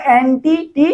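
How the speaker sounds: অ্যান্টি, then টি repeated by itself; stress on টি. Shown as a demonstration. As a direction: pick out the টি after অ্যান্টি. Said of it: "টি বেশি উচ্চারণ হচ্ছে". (অ্যান্টি বলে টি আলাদা করে)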